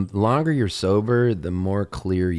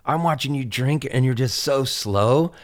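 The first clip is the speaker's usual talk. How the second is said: stage bit; 5 semitones higher than usual. Pretend. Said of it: "I see people drinking, I go".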